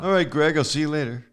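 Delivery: hammed-up, poor imitation of a relaxed entertainer; bad impression of a singer. Host mimics the star's casual rehearsals, bad impression.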